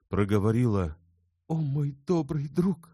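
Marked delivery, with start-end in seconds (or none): 1.5-2.9 much higher, breaking into sobs; sobbing farewell. A narrator's reading. Elena thanks Bersenev much higher, sobbing. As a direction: cry out your thanks and run. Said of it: "зарыдала".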